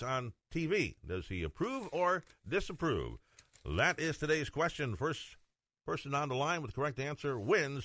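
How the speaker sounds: punchy host read, key words set apart; radio contest announcer. Acted. Host giving listeners the mug contest question, announcer style.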